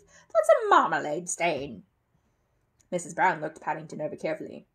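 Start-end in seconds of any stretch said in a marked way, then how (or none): 0.1-1.8 loud, slow, relieved verdict; relieved exclamation. A narrator's reading. Mrs Bird identifying the stain, exclaiming with relief. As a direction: draw it out loudly as relief sinks in. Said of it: "she exclaimed with relief".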